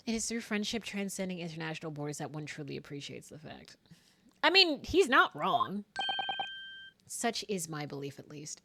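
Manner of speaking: lightly voiced, composed gentleman; formal game character. Reads a game character's formal lines.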